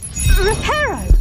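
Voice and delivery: slow, loud, high incantation; spell cast. Acted. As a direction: call the spell out forcefully. Casting a repair spell.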